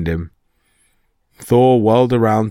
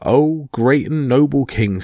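Loki in a higher, mock-dainty voice; sweet, higher bridesmaid voice; high-pitched voice; 4 semitones higher than usual. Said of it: "said Loki in a high-pitched voice".

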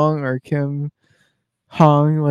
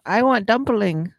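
high, slow hammed-up Asian accent; drawn-out mock Asian accent; 8 semitones higher, slower than usual. Voicing the pedicurist.

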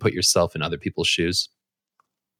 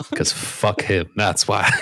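drawn-out, deadpan movie-line delivery; slow, defiant quote from the movie; much slower than usual. Retold or imitated. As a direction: lean on it slowly, like the film. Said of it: "Good Will Hunting says".

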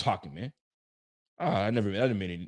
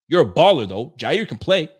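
hype; 4 semitones higher, 8 dB louder than usual. Real, not acted. Hyping the player.

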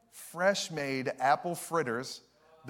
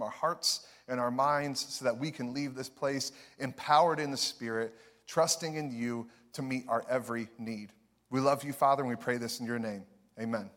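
prayer. Acted. Opening prayer in sermon.

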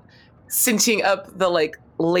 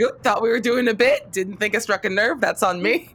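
sheepish apology; 4 semitones higher than usual. Acted. Acted sheepish apology after joke.

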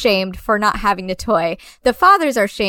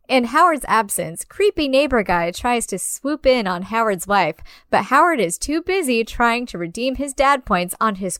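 lively scripted synopsis narration; plot summary read. Acted. Co-host picks up the movie plot for listeners, scripted narration. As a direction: read it out with playful emphasis.

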